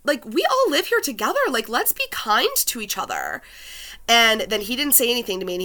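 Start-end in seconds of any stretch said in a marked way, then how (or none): 0.0-3.4 higher pleading call; half-yelled plea to be kind; mock yell at the neighbor; mild retold yell. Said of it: "I kind of yelled".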